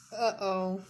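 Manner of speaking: a loud, mock dismayed uh-oh; Tiny's uh-oh. Tiny after the cactus, mock dismay. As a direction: sing out a small oops.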